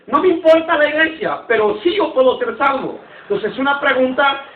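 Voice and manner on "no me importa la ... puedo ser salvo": dismissive quote. Retold or imitated. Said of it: "Como queriendo decir".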